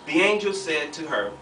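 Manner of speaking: measured, emphatic Bible reading; scripture reading. A narrator's reading. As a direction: read the verse out to the room, weighting each phrase. Reads scripture aloud to the group.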